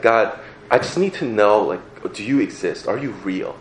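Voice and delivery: softly pleading prayer, barely voiced; quiet prayer. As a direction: pray it under your breath.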